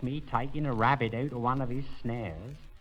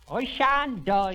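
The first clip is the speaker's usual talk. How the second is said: slow, high and louder mock shout; 10 semitones higher, 5 dB louder, slower than usual. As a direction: bellow it stubbornly, slowly. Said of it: "shouted it at me like that".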